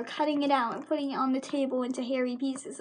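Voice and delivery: normal talking voice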